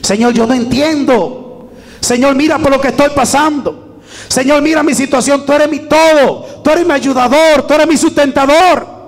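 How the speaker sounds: fervent prayer, building. Shown as a demonstration. Preacher models a prayer for the congregation, starting hushed and building to a fervent cry. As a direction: pour your heart out to God, rising to a cry. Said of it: "Vaya ahí delante".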